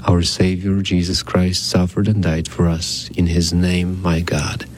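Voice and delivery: recited prayer. Acted. Priest praying an act of contrition, measured prayer. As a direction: pray it evenly, in short solemn phrases.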